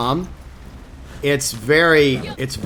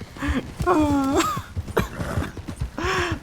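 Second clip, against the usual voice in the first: high, soft, drawn-out laugh; helpless laugh at your own flub; 14 semitones higher, 8 dB quieter than usual. Real, not acted. Streamer laughing at own failed accent, embarrassed laugh.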